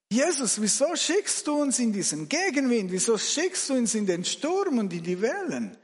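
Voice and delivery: pleading complaint, lifted in pitch; mild reproachful questioning. Acted. Exhausted rower asks Jesus about the storm, mildly reproachful. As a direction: question him with a touch of exasperation.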